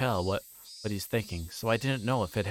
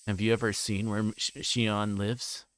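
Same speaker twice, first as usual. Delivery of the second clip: ordinary delivery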